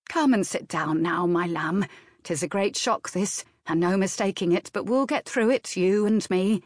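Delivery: lightly voiced nurse, soothing her lamb; motherly old nurse. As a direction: comfort her like a child, gently. Nurse comforts widow.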